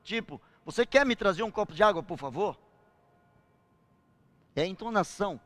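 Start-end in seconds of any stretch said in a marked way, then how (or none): 0.6-2.6 bossy request. Shown as a demonstration. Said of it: "falam numa tonalidade que parece que estão mandando".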